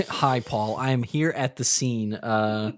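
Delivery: lightly done field reporter voice; a hint of an on-scene news anchor. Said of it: "my news anchor voice's mouth".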